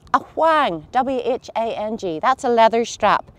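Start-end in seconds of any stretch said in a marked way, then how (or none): 0.1-0.9 "whang" said with Ulster Scots sound; Ulster Scots word. Shown as a demonstration. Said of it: "Ulster Scots words and phrases I'd like you to listen out for".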